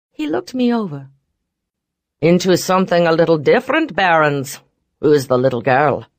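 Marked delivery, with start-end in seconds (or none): 2.2-6.1 louder rough teasing; gruff mocking voice. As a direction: sneer at the newcomer. McCabe mocks Barrons.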